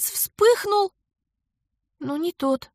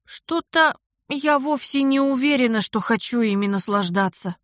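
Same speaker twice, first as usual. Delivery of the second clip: shaky frightened mumble. Acted. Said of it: "дрожащим голосом пробормотала я".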